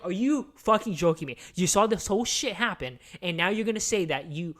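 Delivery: loud, outraged tirade; ranting at the friend who watched, furious. Retold or imitated. Furious rant at movie character.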